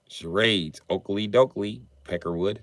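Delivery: lightly voiced Ned Flanders accent, with "Oakley dokley" sing-song; a hint of Ned Flanders' cheery neighbourly accent. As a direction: read it as Ned Flanders would, only lightly. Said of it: "the Flanders accent".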